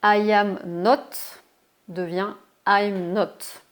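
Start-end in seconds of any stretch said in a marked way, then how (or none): 0.0-1.4 "I am not" stretched very slowly and louder; slow model reading. Shown as a demonstration. Teacher showing the full negative form, slow and loud. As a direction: lay out each word slowly for learners. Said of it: "Alors regardez".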